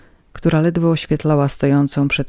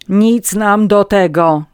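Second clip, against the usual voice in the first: slow, loud, higher rebuff; shouted; 6 semitones higher, 8 dB louder, slower than usual. A narrator's reading. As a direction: shout it to shut the matter down. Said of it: "krzyknął January".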